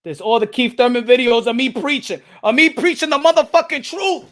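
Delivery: loud boastful declaration; proud brag. Real, not acted. Streamer bragging to chat about his old videos, loud.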